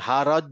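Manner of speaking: "হারজ" with an over-doubled final জ plus vowel; doubled letter fault. Shown as a demonstration. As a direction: overdo the জ of "হারজ" into a full extra syllable. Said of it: "এরকম যেন না হয়".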